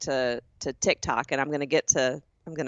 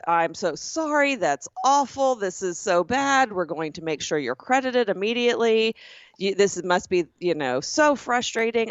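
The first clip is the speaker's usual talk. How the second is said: overdramatic agent; 2 semitones higher than usual. Retold or imitated. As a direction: lay the sympathy on thick like a scripted agent. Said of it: "He goes".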